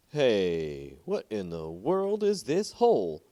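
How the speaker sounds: a villager spotting something strange; surprised call. Acted. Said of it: "raised his voice".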